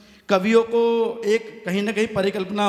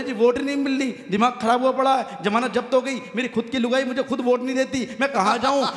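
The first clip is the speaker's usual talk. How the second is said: higher, hammed-up complaining neta; mock whining politician; 5 semitones higher than usual. Poet imitating a weeping politician complaining about votes, mock whine.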